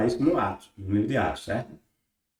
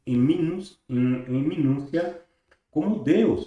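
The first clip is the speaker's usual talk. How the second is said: measured, deliberate reading of scripture and commentary; formal read-aloud. Acted. Teacher reading the source text to viewers, formal read-aloud. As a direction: read it out solemnly, stretching the key phrases.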